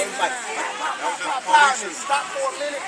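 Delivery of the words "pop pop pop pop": spoken gunshot pops, pitched up; imitated gunshots. Witness recounting the shots heard, imitated gunfire pops. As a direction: pop out the shots one by one. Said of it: "like, eight shots".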